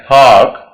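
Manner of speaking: "पार्क" as paak without the r; aa sound. Shown as a demonstration. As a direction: drop the r in "पार्क", hold the aa. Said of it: "आ sound देंगे". ("पार्क" में लंबा आ, आर खामोश)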